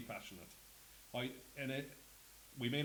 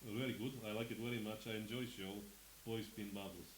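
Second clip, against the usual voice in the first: lightly put-on Anglo-Irish gentry accent; hint of Anglo-Irish gentry in broken English; 2 semitones lower than usual. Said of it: "my best, um, Anglo-Irish accent".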